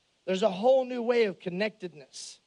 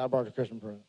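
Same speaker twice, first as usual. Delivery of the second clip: trucker voice; 11 semitones lower, 5 dB quieter, much faster than usual. Retold or imitated. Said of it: "He said".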